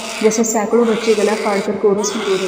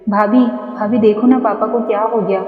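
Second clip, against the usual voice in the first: wailing; 3 dB louder than usual. Acted. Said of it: "वो बिलखती हुई बोली".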